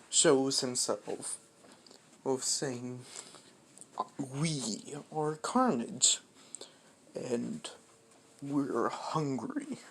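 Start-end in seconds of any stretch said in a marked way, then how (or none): 4.2-9.8 slow, half-whispered symbiote voice; lightly voiced monster. Carnage introduces itself to the family, slow creepy half-whisper. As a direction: drag it out like a hungry creature.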